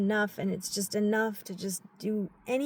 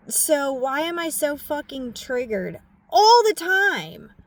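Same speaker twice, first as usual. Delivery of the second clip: real tearful outburst, louder and higher; crying; 6 semitones higher, 9 dB louder than usual. Real, not acted. Venting to viewers about being triggered, crying out loud. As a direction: ask it through tears. Crying while asking herself.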